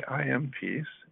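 soft, slow and settled; soft affirmation. Shown as a demonstration. The speaker shows the affirmation to listeners, soft and slow. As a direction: let the words sink in quietly. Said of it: "and when I stop and say".

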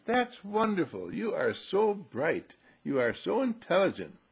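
lightly acted admiring mom; praising mother. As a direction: gush over your boy unhurriedly. Voicing mother praising son.

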